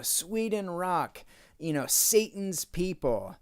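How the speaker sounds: a slow, drawn-out hint of a stadium announcer; slow mock announcer call. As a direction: lightly mimic the announcer hyping the crowd. Quoting the concert announcer.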